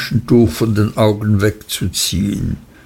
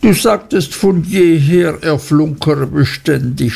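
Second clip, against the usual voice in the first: higher, mildly tearful accusation; sobbing wife; 4 semitones higher than usual. A narrator's reading. Wife turns on husband, understated sobbed reproach. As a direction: complain with a touch of a sob, pitched up. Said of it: "schluchzte Dora".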